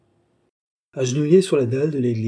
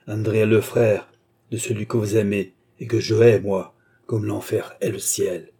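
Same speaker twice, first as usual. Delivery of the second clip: vengeful outburst; 3 dB louder than usual. Acted. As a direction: spit out the revenge, then drag it. Villain drops his mask, vengeful.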